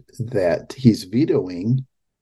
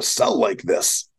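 much higher, slow, breathy mock voice; mocking squeak; 14 semitones higher, slower than usual. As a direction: mimic him in a squeaky whisper. Mocking Newsom's words.

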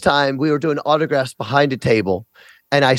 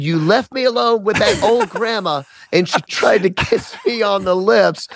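higher, agitated complaint; upset; 5 semitones higher than usual. Retold or imitated. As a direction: blurt it out shaken. Shaken complaint to wife.

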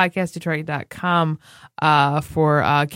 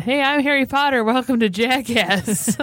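lightly voiced meme announcer, higher pitch; meme Harry Potter; 5 semitones higher than usual. Quoting a meme to friends, mock announcer. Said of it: "there was a meme where it said".

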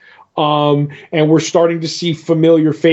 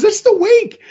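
much higher, "the" stressed, rising at the end; goofy triumphant answer. Retold or imitated. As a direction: hit "the" in "That's the wake" and lift the end like a question. Same goofy counter voice.

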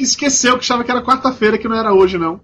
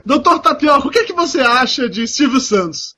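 mock interviewer; 4 semitones higher than usual. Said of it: "fake entrevista com o Tapioca".

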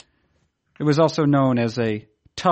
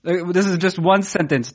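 robot voice. Real, not acted. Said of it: "you sound like a robot again".

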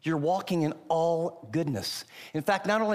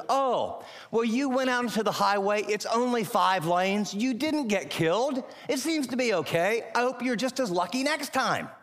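breezy, higher mock-careless father; careless dad; 5 semitones higher than usual. Father brushing off sons' highway danger, breezy and mocking. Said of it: "a very irresponsible thing to do would have been saying".

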